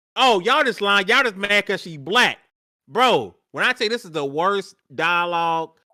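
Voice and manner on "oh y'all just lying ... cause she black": ordinary delivery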